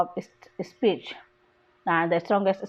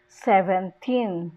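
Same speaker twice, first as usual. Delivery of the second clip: put-on "seventeen" slow, with a drawn-out "teen"; stress on last syllable; 3 semitones lower, slower than usual. Shown as a demonstration. Teacher shows number stress, last syllable of "seventeen" stressed. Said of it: "the stress falls on the last syllable".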